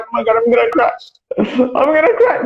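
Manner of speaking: high, laughing mock despair; mock panic. Newcomer retelling getting lost in Manchester, in mock panic. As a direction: replay being overwhelmed, half laughing, pitch climbing. Retelling being overwhelmed by the accent.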